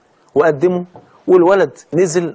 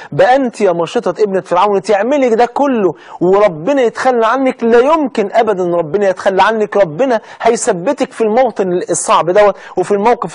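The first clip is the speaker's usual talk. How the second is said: fervent reassurance; 3 semitones higher than usual. Acted.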